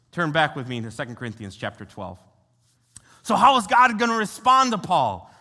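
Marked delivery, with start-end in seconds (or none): 3.2-5.3 raised, louder preaching question, leaning on how; rousing question. Real, not acted. Preacher rousing the congregation with a louder question. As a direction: call it out to the whole room.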